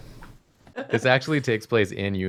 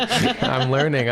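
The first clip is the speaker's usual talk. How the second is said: laughing; 5 semitones higher, slower than usual. Real, not acted. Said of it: "until you learn".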